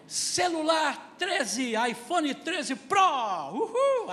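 high, slow gleeful shout; spoiled kid whooping for an iPhone; spoiled child cheering. Retold or imitated. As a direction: crow over the new phone. Spoiled son demanding a phone.

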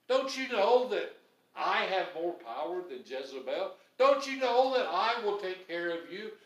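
God pleading. Retold or imitated. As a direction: press each question home. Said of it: "he said to him".

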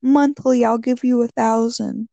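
high, sweet, coaxing; sugar mama. Retold or imitated. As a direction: lure him in, sugary. Voicing scammer lady.

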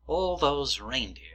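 slow, hushed whisper. Acted. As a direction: hush it like a dark secret. Dramatic hush over the reindeer.

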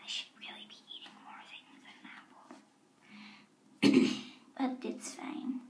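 hushed whisper, guards just outside. Acted. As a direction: keep it to a secret whisper. Trying to hide it 'cause the guards.

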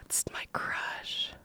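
whispered, slow gasping "It's my crush"; mock-shocked whisper. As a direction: hush it like a big secret. Reacting to a text.

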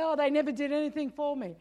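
fast, dismissive whine; mock the ungrateful; mild mock grumble; ungrateful complaint. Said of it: "and then they say".

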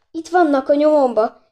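high, loud, alarmed cry. A narrator's reading. Gizella telling the porter she is being followed, crying out. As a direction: call out in alarm. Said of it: "kiáltotta Gizella".

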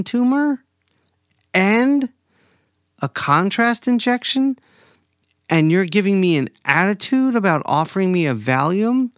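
real exasperation at the dismissive doctor; indignant rant. Real, not acted. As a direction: let the indignation spill over. Venting outrage at the doctor.

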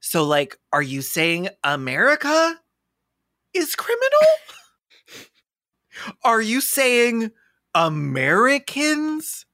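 mock a blustering American defendant; lawyer's patriotic speech. Defendant addressing the court about America, mock outraged patriot. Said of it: "would be like".

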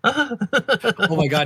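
high, slow, loud squeal of delight. Real, not acted. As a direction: shriek with delight. Delighted reaction to the laugh.

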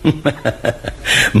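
breathy, quiet amused laugh; soft chuckle. Acted. Father quietly amused at his son, soft chuckle. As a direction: chuckle softly to yourself.

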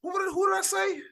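realizing he misread the name, a high surprised shout. Real, not acted. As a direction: yelp it out, caught in a mistake. Caught in a mistake.

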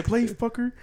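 high, laughing taunt; laughing trash talk. Retold or imitated. Friend recalling playful trash talk, laughing taunt.

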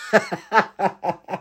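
helpless burst of laughter; real high laugh, tailing off. Real, not acted. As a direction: crack up at your own story. Laughs at own story.

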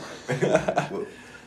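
high-pitched imitation of the Joker's cackle; Joker laugh. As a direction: burst into a mock uncontrollable laugh, high. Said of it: "you'd have to be the Joker".

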